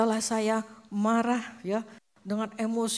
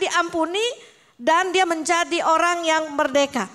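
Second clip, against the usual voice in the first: higher, louder rousing pulpit call; preaching at full force; 7 semitones higher, 6 dB louder than usual. Acted. Preacher proclaiming unconditional forgiveness, fervent and loud. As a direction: proclaim the freedom with fervour.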